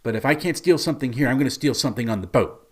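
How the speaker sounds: mildly sulky, quickening retort; a touch of petulant defiance; pouty concession. Retold or imitated. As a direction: give in with a light pout, then rattle off the threat. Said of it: "pouts and stomps her feet and says".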